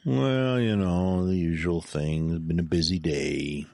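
mildly whiny, sinking as it goes. Real, not acted. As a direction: grumble lightly about a long day. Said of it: "Don't whine at me".

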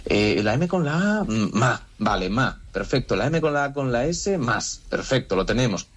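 lightly voiced preschooler sounding out letters; mock halting first attempt at reading; beginning reader. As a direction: mimic a little learner piecing syllables together, pitch lifting on the letters. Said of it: "como una persona de párvulos que empieza".

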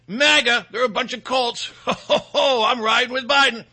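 mock smug laugh. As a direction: cackle the slogan like a smug fan. Mocking a Biden voter laughing.

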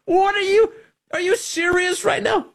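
high, disbelieving outburst; incredulous. Real, not acted.

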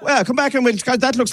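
high hail across the street; calling out. Real, not acted. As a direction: shout over to the lad with the box. Host calls to passing boy.

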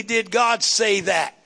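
slow shouted "Did God say that?" with GOD hit hard; emphatic demand. Shown as a demonstration. Pastor teaching the church its question, slow shouted challenge. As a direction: bark "Did God say that?" slowly, leaning on God. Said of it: "your constant question ought to be".

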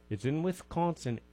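put-on high, playful Wisconsin accent; hammed-up "don't you know" Wisconsin accent; mock Wisconsin accent. Radio host joking about a Wisconsin festival, mock Wisconsin accent.

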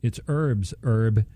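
"herbs, herb" without the H, as erbs, erb; silent-H correction. Retold or imitated. Quoting a commercial where she corrects him, H silent in herbs. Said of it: "she finally said".

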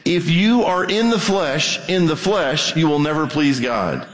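slow, deliberate preaching; said slowly. Real, not acted. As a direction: spell it out slowly for them. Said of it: "So let me say this slowly".

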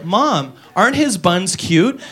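put-on slow, soft, sweet kid; sweet girl voice. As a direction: coo it slowly like a little girl. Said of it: "she'd go".

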